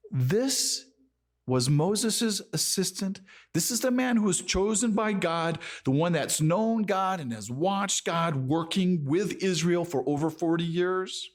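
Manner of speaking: mildly incredulous, pitched high; astonished disbelief. Acted. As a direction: press the point in high-voiced amazement. Preacher acting disbelief at Joshua.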